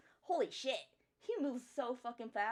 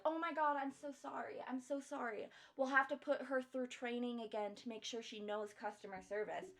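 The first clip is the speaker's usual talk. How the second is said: higher-pitched, placating apology; customer-service voice; 4 semitones higher, 3 dB quieter than usual. Retold or imitated. Manager apologizing to an angry customer for an employee, placating customer-service voice. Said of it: "doing the whole customer service thing".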